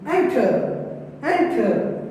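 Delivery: "Enter" with weight on En, falling after; teacher demonstrating front stress on "Enter"; stress on first syllable. Shown as a demonstration. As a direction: hit the start of "Enter". More examples of first-syllable stress.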